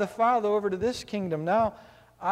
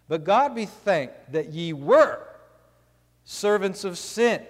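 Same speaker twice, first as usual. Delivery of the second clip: scripture reading; 2 semitones lower than usual. Acted. Preacher reads Romans aloud.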